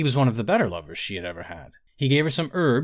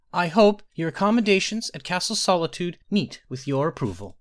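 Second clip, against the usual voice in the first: put-on higher, formal boy-king voice; regal enunciation; 7 semitones higher than usual. A narrator's reading. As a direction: enunciate each syllable with royal poise. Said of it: "enunciating each syllable with a regal accent".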